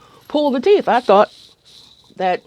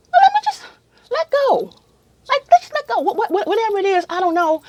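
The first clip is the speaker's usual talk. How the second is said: very high, giggly and quick; giddy letting go; 14 semitones higher than usual. Retold or imitated. Gassed patient giving in, high and giggling. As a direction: surrender with a laugh.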